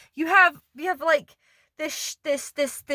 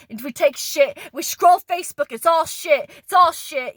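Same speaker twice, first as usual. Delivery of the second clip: angry rant; 2 semitones higher than usual. Real, not acted. Ranting about the food industry.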